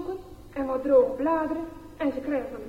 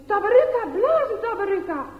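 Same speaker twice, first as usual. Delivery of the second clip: higher, louder shout urging a friend; children shouting; 6 semitones higher, 7 dB louder than usual. Acted. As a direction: yell across the schoolyard to make him blow. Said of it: "Dan hoort hij roepen".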